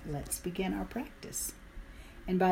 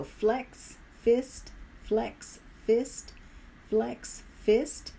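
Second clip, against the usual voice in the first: called-out cues; 4 semitones higher, much slower than usual. Real, not acted. Calling out rhythmic hand cues.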